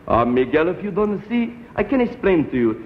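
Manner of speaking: a hint of a coaxing Mexican father; patient father, accented. Father coaxing son about the money, lightly accented. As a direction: explain it like a dad bargaining.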